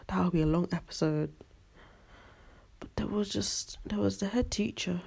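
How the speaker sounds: hushed, gossipy whisper; whispered aside. Real, not acted. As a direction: drop to a secretive whisper.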